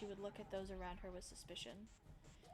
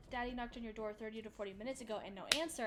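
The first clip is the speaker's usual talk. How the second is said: quick retold mom; 4 dB louder, faster than usual. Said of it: "my mom just said".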